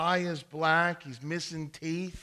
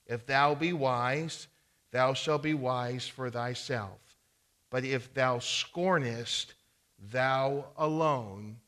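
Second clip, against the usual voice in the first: scripture reading. Acted. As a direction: lean into each clause. Reads Proverbs nine aloud.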